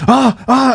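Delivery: high imitated cries of amazement; excited gasps. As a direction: mimic an astonished grandpa. Imitating grandpa's startled pointing.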